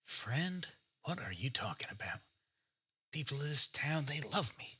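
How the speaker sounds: a proud oddball who thinks the town adores him; Vulture, pleased with himself, talking to the party; lightly voiced eccentric Vulture.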